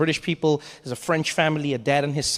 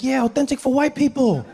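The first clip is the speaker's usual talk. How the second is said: mocking host; 8 semitones higher than usual. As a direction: sneer at the tourist from a great height. Host mocks the tourist.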